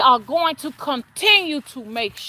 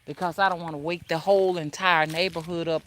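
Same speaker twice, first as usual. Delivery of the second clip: keeping voice down; 6 semitones lower, 5 dB quieter than usual. Real, not acted. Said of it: "keep my voice down".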